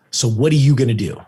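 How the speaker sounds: imitated mom, measured and emphatic; firm challenge. Mom challenging her upset son to act, firm. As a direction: put the question squarely to him.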